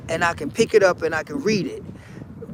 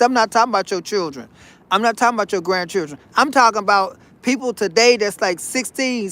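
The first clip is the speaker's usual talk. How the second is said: rushed aside; faster than usual. Real, not acted. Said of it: "fast clarifying aside".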